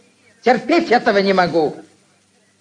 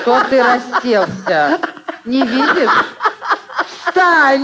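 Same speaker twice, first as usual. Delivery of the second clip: sharp, rising commands; angry scolding; 6 semitones higher, slower than usual. Acted. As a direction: order him up, furious. Aunt scolds him to stand.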